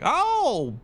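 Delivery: put-on very high, slow breathy-free girly voice; hammed-up high girly voice asking for Betty; mock girly message. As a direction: squeal it like a fake anime girl. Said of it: "sending me messages like".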